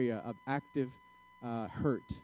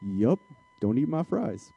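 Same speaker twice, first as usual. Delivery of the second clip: guarded spouse, starting much lower; closed off; 3 semitones lower, 4 dB louder, slower than usual. Acted. Spouse warning partner off the fries, closed off. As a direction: play it shut down and begrudging. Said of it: "We're closed off. We're guarded".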